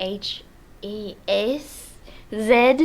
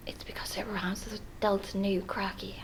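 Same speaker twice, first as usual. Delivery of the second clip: whispering; 6 dB quieter than usual. Real, not acted. Confiding joke aside.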